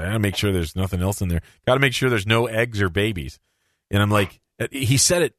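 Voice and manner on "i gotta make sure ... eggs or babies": imitating a doctor, low and matter-of-fact; deadpan serious. Doctor checking the patient's ear for eggs, deadpan. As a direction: say it dead serious, pitched down. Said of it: "like, deadpan seriously".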